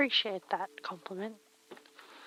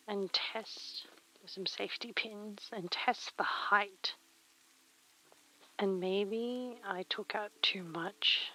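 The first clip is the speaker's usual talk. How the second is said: whispering; 7 dB quieter than usual. Real, not acted. Muttering to self while sewing.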